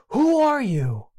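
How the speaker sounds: calling out high across the woods; shouting out. Retold or imitated. Child calls into the woods, high calling shout. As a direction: call out to a stranger you can't see. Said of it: "he shouted out".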